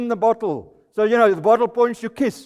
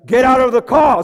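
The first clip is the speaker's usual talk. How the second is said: slightly louder misheard order; misheard command; 4 semitones higher, 6 dB louder than usual. Retold or imitated. Dad in the car, as misheard by deaf son: mild mock yell. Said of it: "I hear".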